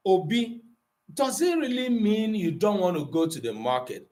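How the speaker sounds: coaxing parent asking Obi; pleading question. Shown as a demonstration. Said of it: "Whether it is gonna be more pleading".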